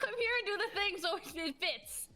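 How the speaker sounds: high-pitched gremlin creature. Acted. Guest calling someone over to dance, in gremlin voice. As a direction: call out as a high little gremlin. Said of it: "I'll do a gremlin voice".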